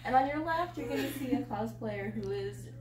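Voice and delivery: lightly put-on tour guide patter; measured hint of a guide pointing out sights. Tired cosplayer showing viewers round the room, mock tour guide. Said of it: "do it as a tour guide".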